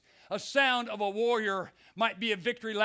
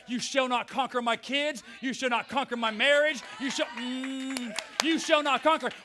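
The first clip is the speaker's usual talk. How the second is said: rebuking Satan; 2 semitones higher than usual. Acted. Preacher rebukes Satan aloud.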